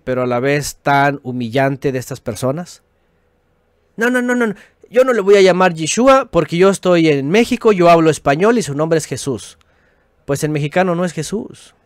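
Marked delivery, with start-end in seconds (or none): 3.9-9.6 mocking quote. Mocking stubborn objectors.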